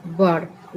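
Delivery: बर्ड as "burd", not "beed"; bird pronunciation. Shown as a demonstration. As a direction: say बर्ड with a short central vowel. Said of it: "इसका उच्चारण क्या होगा".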